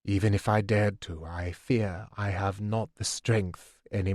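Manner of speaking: a spent ruler confessing defeat; weary old king. Acted. Tired king lists his failings.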